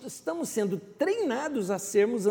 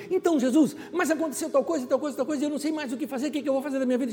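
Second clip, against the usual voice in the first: higher, rushed anxious pleading; anxious woman; 6 semitones higher, much faster than usual. Acted. Woman pouring problems out to Jesus, high anxious pleading. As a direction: spill out your worries all at once.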